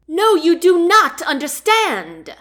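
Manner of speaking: high, loud angry yell. Acted. Queen to chancellor, a high, loud yell. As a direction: throw it back at him, furious. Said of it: "Andrea yelled".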